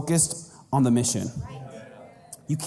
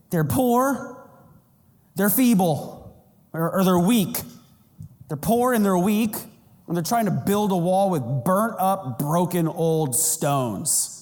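mock trash talk; 2 semitones higher than usual. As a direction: scoff at them in a put-on voice. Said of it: "Sanballat was talking trash".

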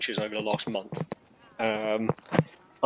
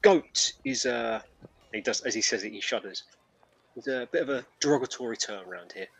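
shuddering goat man. Acted. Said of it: "he's like".

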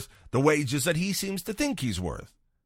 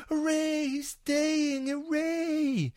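much higher, sing-song hooray; mock cheer; much slower than usual. Fans cheering that the striker is staying, high mock cheer. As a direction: cheer like a delighted crowd.

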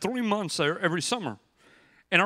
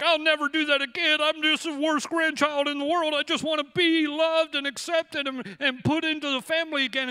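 retold tearful plea; 9 semitones higher than usual. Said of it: "pouring tears".

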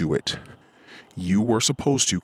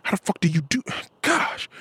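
amazed exclamation; 10 semitones higher than usual. Retold or imitated. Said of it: "I'm like".

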